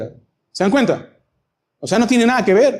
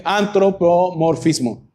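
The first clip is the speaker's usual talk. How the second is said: Antropomorfismo said slowly, syllable by syllable; slow deliberate Antropomorfismo; slower than usual. Shown as a demonstration. Preacher teaching the word to the congregation, slowly. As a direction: spell out Antropomorfismo slowly for the class.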